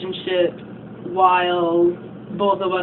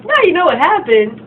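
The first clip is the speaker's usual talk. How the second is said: smug; 3 semitones higher, 3 dB louder than usual. Retold or imitated. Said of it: "she's just like".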